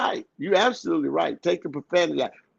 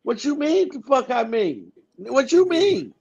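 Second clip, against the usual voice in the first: mocking his partner; 6 semitones higher than usual. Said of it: "she get on the".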